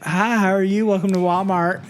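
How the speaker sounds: high-pitched greeter sing-out; put-on high customer-service voice; store greeter lady. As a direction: imitate a chirpy checkout lady. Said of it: "and the lady's like".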